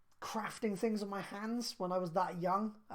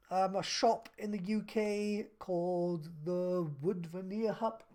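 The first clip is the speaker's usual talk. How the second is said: talking through hiccups; hiccuping; slower than usual. Real, not acted. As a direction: hiccups breaking the words. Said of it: "Sorry, I'm hiccuping".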